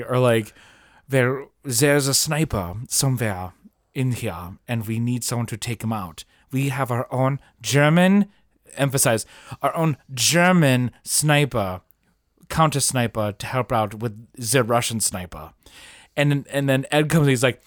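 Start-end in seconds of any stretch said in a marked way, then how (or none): 1.1-8.3 mock German officer accent. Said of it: "the Germans in this movie have German accents". 9.6-15.5 put-on German accent. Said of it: "the Germans in this movie have German accents".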